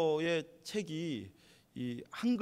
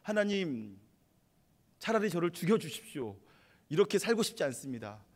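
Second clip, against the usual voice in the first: a touch of heated defiance; angry demand; 2 semitones higher, 3 dB louder than usual. Retold or imitated. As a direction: shake a fist at God and demand death, mildly raised. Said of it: "하면서 화를 내요".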